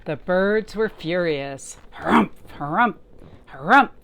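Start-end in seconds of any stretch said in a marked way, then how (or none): 1.9-3.9 mock harumph yell. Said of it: "yelled a bonga bird".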